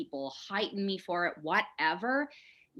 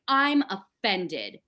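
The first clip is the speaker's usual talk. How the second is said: slow, louder show of offence; mock offended; 6 dB louder, much slower than usual. Best friend objecting to her rant, offended. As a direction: imitate an affronted friend, leaning on each word.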